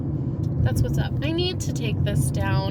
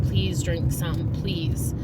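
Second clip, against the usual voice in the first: pleading; 3 semitones lower, much slower than usual. Retold or imitated. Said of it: "I told my parents".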